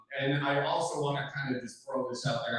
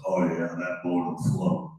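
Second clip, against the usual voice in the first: Uncle Jack; 7 semitones lower than usual. Retold or imitated. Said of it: "He goes".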